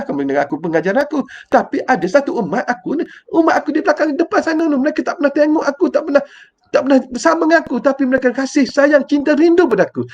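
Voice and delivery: fond, wistful recollection; tender, longing words. Retold or imitated. Prophet tells his companions of the ummah, tenderly. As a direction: speak lovingly of unseen followers. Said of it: "Nabi kata".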